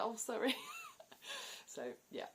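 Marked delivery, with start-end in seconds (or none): 0.0-0.6 squeezing past. Retold or imitated. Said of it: "it's like".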